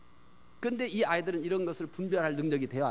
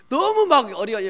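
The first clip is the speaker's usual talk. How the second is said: ordinary talk, nothing marked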